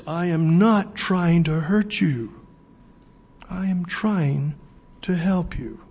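slow, measured, calmed-down voice; calm reassurance. Acted. Jesus reassuring the church after the warning, slow and calm. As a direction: drop from thunder to slow, tender assurance. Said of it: "And then he says".

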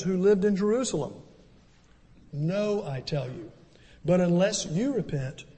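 solemn reading of the gospel; scripture reading. Acted. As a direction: read the passage with gravity and pauses. Reads the scripture passage.

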